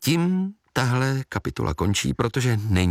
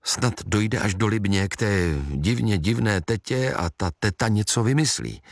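ordinary delivery, nothing marked

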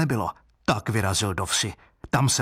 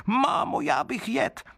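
put-on much higher, childish wooden baby whine; a greedy little creature begging for food; hungry baby crying out; 12 semitones higher than usual. Wooden baby demands food from his mother, high and whining. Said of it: "potom zase křičel".

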